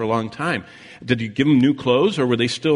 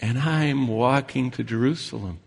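Father Abraham; 3 semitones higher than usual. Acted. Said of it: "the man from the grave says".

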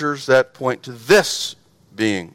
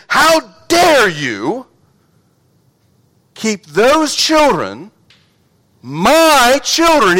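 slow indignant rebuke, higher; 4 semitones higher, much slower than usual. Retold or imitated. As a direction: scold them with slow indignation. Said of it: "with indignation".

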